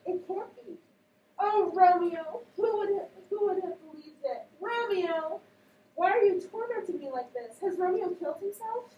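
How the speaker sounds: high, loud frantic pleading; alarmed Juliet. Acted. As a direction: cry out in panic for Romeo.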